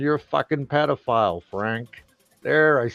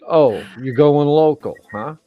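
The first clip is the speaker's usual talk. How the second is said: teasing Dave; 3 semitones higher, 8 dB louder than usual. Retold or imitated. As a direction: needle him like a mate would. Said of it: "Dave Phelps said it best".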